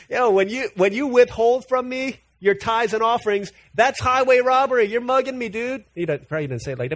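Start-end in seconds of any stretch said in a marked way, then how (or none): 0.1-5.8 louder and higher, pressing the point; emphatic preaching. Acted. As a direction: drive it home to the congregation. Preacher voicing God's complaint.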